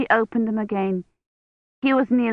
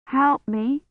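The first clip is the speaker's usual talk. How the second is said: weak plea; 6 semitones higher than usual. Acted.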